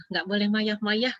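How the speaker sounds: put-on slow toddler talk, "mayah-mayah" with a y sound in place of r; toddler mispronunciation. Grandchild scolding grandma, in slow toddler talk. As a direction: imitate a two-year-old saying "mayah-mayah", slowly.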